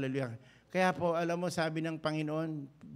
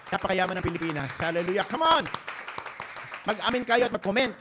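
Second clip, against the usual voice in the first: loud, rising cry to the crowd; rally them to praise; rousing shout; 4 semitones higher, 6 dB louder than usual. Real, not acted. Preacher rouses congregation. (sigaw ng papuri)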